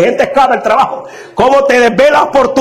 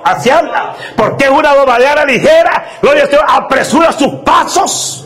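raised, fervent scripture reading; preaching at full force; 2 semitones higher than usual. Acted. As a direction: thunder the prophet's words at the congregation. (predicación a todo pulmón, con voz elevada)

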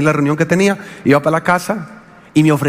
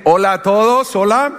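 silly greeting; 3 semitones higher than usual. Retold or imitated. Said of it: "Uno es ridículo".

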